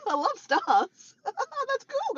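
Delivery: laughing through the words, high and loud. Real, not acted. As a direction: giggle while you read them out. Laughing while reading stickers.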